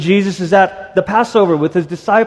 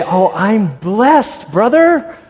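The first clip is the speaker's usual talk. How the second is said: mock churchy Christian; 3 semitones higher, much slower than usual. Imitating a church greeter answering how are you, slow and sugary. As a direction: ham up the stock church reply. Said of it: "How are you today?".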